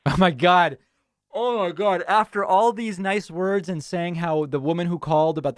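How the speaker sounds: real, startled exasperation; dismayed disbelief. Real, not acted. Host reacting to caller delaying the vaccine, dismayed.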